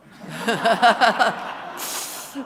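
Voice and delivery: big burst of laughter, rising; loud hearty laugh. Real, not acted. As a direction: laugh out loud, fully amused. Laughs loudly at Joe story.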